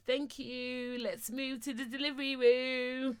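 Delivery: slow, drawn-out singsong delight; re-enacted relief. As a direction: stretch it out gratefully, as if finally freed. Acting out relief at good news.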